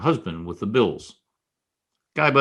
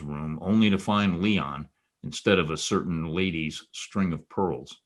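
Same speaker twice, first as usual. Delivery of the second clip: low, even private-eye voiceover over music; noir narration; 3 semitones lower than usual. A narrator's reading.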